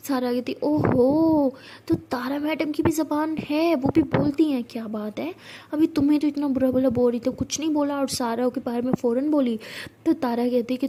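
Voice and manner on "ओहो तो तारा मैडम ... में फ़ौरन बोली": sarcastic mockery. Sara taunting Tara for finally talking back, sarcastic. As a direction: sneer at her for speaking up. Sara mocks Tara's defence.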